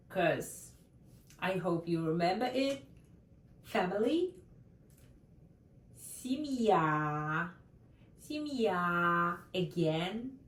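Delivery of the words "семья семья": Семья with the stress on the final я; stress on the end. Shown as a demonstration. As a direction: lean on the last syllable of Семья. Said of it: "the stress at the end of the word".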